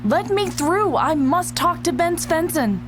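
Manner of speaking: breathless, urgent push through; out of breath. Acted. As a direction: speak out of breath after running. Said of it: "You are completely out of breath".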